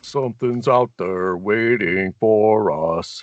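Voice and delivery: slow, low, ominous; ominous movie line. Retold or imitated. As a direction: warn them darkly. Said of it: "it's Predator".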